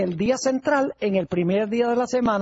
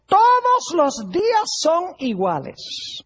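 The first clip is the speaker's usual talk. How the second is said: higher, slow whiny objection to the pastor; mocking objector; 5 semitones higher, slower than usual. Church member objecting to the pastor, slow mocking whine. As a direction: drag it out like a doubter brushing off the rule. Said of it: "Algunas personas dicen".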